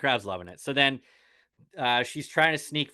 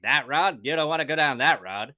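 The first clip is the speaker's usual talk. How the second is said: creepy local voice; 5 semitones higher, 5 dB louder than usual. Retold or imitated. Weirdo giving directions.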